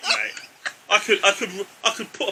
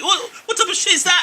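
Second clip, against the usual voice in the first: laughing outrage; 10 semitones higher than usual. Real, not acted. Ranting about ticket prices, laughing.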